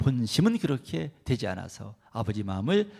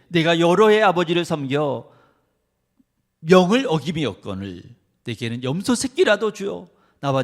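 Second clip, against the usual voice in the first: protesting son; 5 dB louder than usual. Acted. Elder son protesting scripture.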